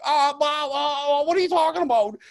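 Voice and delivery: high, loud feigned surprise; hammed-up fake innocence from the thief; mock innocent. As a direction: play the guilty roommate acting clueless.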